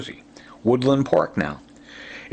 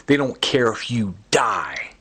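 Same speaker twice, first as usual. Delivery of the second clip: breathy unvoiced whisper of the threat; whispered quote; 2 semitones lower than usual. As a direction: hiss it out under your breath like a secret. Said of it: "you hear him saying".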